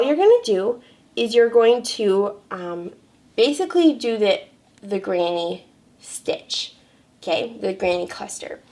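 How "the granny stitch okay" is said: ordinary delivery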